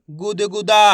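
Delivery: गुदगुदा loud, ending on a held दा; syllable-by-syllable reading. Shown as a demonstration. Teacher blends letters for learners, loud syllabic गुदगुदा. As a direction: sound out गु-द-गु-दा. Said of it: "एक एक अक्षर का उच्चारण".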